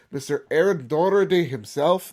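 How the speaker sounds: hammed-up Irish accent on the name; attempted Irish accent. Shown as a demonstration. Podcast host announces the patron, in an attempted Irish accent. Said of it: "That is my best Irish accent".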